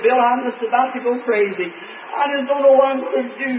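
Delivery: lightly voiced wife near tears; a hint of a frazzled young mother; quoting his overwhelmed wife, a touch of despair; distraught wife. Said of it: "She looked up, she said".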